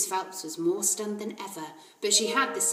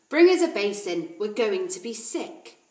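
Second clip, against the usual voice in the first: mock shout; 7 dB louder than usual. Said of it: "we start shouting".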